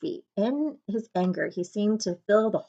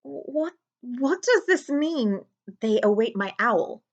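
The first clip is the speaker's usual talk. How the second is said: stammered; 5 semitones higher, slower than usual. A narrator's reading. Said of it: "he stammered".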